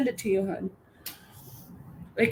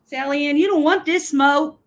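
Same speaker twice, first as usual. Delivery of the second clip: louder mock threat; 3 semitones higher, 6 dB louder than usual.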